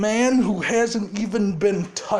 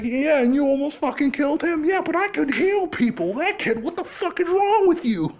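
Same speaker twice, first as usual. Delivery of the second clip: higher, rising angry back-and-forth; heated retort; 6 semitones higher than usual. Retold or imitated. Arguing with All Might over nearly killing Katsuki, a rising angry retort. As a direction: hit back at him, getting more worked up.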